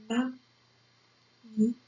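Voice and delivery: "Magnifique" very slowly, long pauses between syllables; slow writing-pace "Magnifique". Shown as a demonstration. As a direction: dictate "Magnifique" as ma, gni, fique. Teacher dictates word by syllables.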